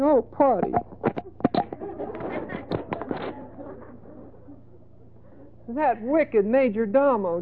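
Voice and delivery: high, sobbing wronged-wife act; mock crying. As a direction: plead tearfully to your husband, hammed-up. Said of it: "And she's crying".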